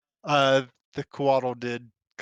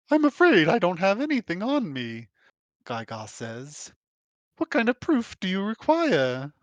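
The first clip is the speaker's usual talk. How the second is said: higher, louder apologetic voice; higher, flustered scholar voice; Gaigar's voice; 5 semitones higher, 3 dB louder than usual. Acted. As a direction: fumble for an answer, higher.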